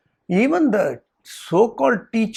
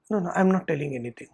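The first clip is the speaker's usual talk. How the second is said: timid denial; 2 semitones lower, 7 dB quieter, much faster than usual. Retold or imitated. Student backing down in story.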